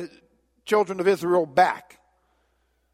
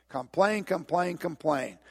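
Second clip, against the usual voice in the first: repeated fading; 6 dB quieter, slower than usual. Shown as a demonstration. Mocking the people's complaining.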